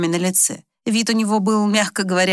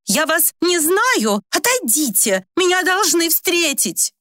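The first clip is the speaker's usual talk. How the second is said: high, slow and much louder; 11 semitones higher, slower than usual. Acted. Old woman repeating louder to the stranger, insistent. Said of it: "снова повторила уже громче".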